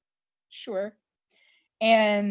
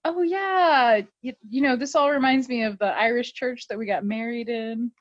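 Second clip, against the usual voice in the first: higher, breezy covert hint; casual cover story; 4 semitones higher than usual. Retold or imitated. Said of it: "he's like".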